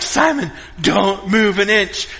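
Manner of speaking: slow, careful retold warning; measured mock-urgent caution; tense warning. Dad keeping son still on the rock, slow tense warning.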